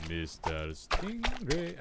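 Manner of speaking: drawn-out sing-song call, slow, ending up; sing-song coaxing. Pretend. Gamer calling the stingray again, slow and sing-song. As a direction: stretch the name like luring a pet.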